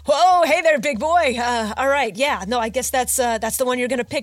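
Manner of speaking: loud, awkward flirty come-on; failed seductive. Acted. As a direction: try to flirt, fumble it. Shopkeeper flirts with hefty customer.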